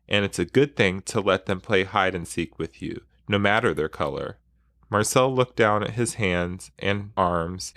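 reading a memoir passage aloud with feeling; expressive book reading; story reading. Acted. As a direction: read the excerpt like telling it to a listener. Reads a book excerpt aloud.

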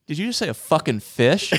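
mock shout of disbelief broken by laughter; laughing disbelief. Dad hears the funeral is for a fish, laughing mock shout. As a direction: act out dad's shock but lose it to laughter.

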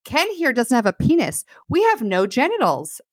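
a hint of perky Barbie, verbatim; mock Barbie voice. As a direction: play Barbie announcing it cheerfully. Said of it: "She said".

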